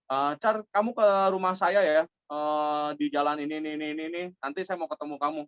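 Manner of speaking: a client giving brisk orders, lightly mimicked; firm caller, imitated. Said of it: "dia dengan tegasnya". (menirukan klien yang agak tegas)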